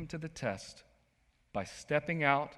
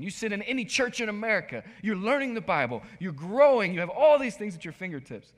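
louder and higher, building with fervor; passionate professor; 8 semitones higher, 8 dB louder than usual. Retold or imitated. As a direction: urge the student, climbing in pitch. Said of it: "in his own eccentric way".

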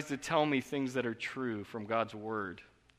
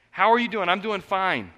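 higher, louder throwaway exchange; breezy small talk; 5 semitones higher, 7 dB louder than usual. Retold or imitated. Pastor acting out empty small talk, breezy. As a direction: rattle off the usual pleasantries. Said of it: "small talk exchange".

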